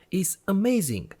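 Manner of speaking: amazed, breathless whisper; a real hushed gasp of amazement; excited whisper. Real, not acted. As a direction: whisper it, genuinely wowed. Amazed by laser cutting result.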